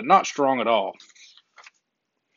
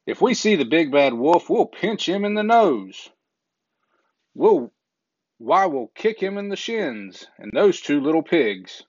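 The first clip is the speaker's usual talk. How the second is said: boastful little pigs; 3 semitones higher than usual. Acted. Brothers boasting about the wolf.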